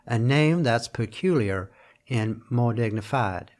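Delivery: slow southern American drawl, stretching "dignified". Shown as a demonstration. Lecturer showing the line in a southern drawl, slow. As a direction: lean into a lazy southern drawl, slowly. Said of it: "so it would have been a southern drawl".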